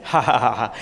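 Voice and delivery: mock ha-ha of scornful relatives; a retold, half-hearted jeering laugh. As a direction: laugh at him, lightly imitating their scorn. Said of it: "they laughed at me".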